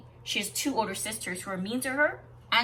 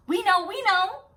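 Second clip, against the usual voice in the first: much higher, eager blurting; cried out; 11 semitones higher, 5 dB louder than usual. Acted. Sisters bluffing the sister, high eager cry. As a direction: blurt it out to cover the lie. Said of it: "cried the two sisters".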